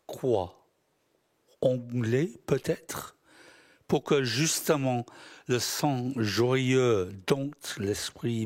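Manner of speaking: measured literary recitation, phrase by phrase; deliberate spoken-verse delivery with spaced-out phrases; poem reading. Acted. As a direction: read your poem to an audience, pausing after each line. Poet reads his poems aloud.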